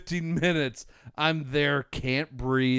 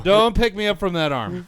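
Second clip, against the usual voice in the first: louder urgent plea; pained plea; 6 semitones higher, 8 dB louder than usual. Retold or imitated. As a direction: beg them not to grab the hurt arm. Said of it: "I'm like".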